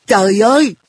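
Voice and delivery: high-pitched "good heavens"; exasperated exclamation. A narrator's reading. Narrator despairs at An's odd logic, exclaiming in exasperation. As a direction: throw up your hands in dismay. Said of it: "Tôi đưa hai tay lên trời".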